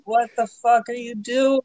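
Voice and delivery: imitating a startled what-the-hell; retold outburst. Recalling shouting at the woman who hit his car, mock outraged. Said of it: "and I'm like".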